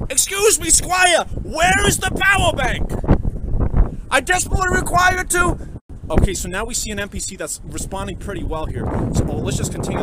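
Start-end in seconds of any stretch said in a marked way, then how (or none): 0.1-5.6 high, loud hammed-up courtly voice; squeaky formal role-play voice; posh game character. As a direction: play an overdone polite NPC asking for help. Same NPC voice again.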